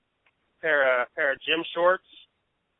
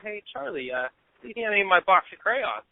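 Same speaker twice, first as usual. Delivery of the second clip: lightly voiced kid offering crayons; a small boy being kind; child classmate; 6 semitones higher than usual. Classmate in homeroom offering his crayons, lightly childlike.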